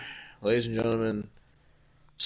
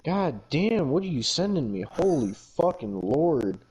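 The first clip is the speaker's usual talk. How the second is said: startled outburst; 4 semitones higher than usual. Real, not acted. Reacting to something cohost sends.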